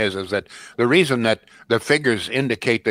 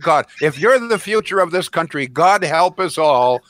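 exasperated; 4 semitones higher than usual. Real, not acted. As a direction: drag it out in dismay. Host's exasperated closing remark.

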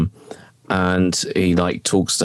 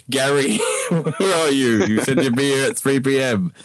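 movie poster voice; 6 semitones higher than usual. Pretend. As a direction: announce it like a film trailer tagline. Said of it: "it goes".

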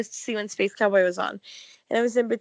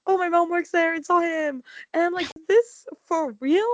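excited quotes; 7 semitones higher than usual. Retold or imitated.

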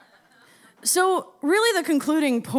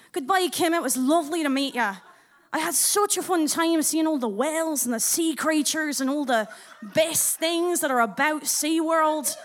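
put-on Scottish accent. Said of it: "do my Scottish accent".

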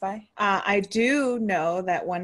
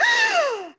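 shocked gasp; 5 dB louder than usual. Retold or imitated. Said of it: "And she was like".

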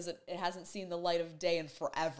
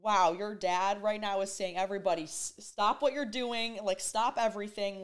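urgent; 3 semitones higher, 5 dB louder than usual. Retold or imitated. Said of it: "she's like".

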